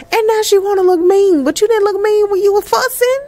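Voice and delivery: laughing jab at the game character; teasing exclaim. Real, not acted.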